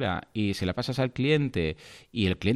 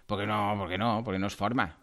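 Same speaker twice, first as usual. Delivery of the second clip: retold firm word; 4 semitones lower, 6 dB quieter than usual.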